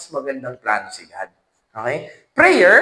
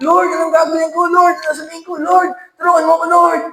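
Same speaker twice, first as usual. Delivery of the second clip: higher, rising into a frantic call; panicked prayer; 7 semitones higher, faster than usual. Acted. (natatarantang dasal na palakas nang palakas)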